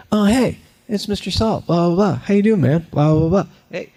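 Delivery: high, lively greeting that tracks a moving cartoon; natural greeting. Shown as a demonstration. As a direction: chat easily while following an invisible friend. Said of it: "So you have to be like".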